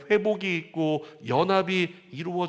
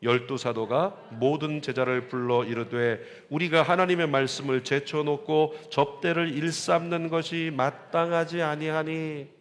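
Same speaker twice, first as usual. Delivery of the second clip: scripture reading. Acted. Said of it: "이 절 말씀 사도들이 어떻게 했는지 볼까요?".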